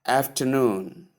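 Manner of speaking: after-NOON, long falling final syllable; last-syllable stress. Shown as a demonstration. Teacher proving the point on afternoon, last syllable stressed. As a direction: put the weight of afternoon on NOON. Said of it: "stress is placed on the last syllable".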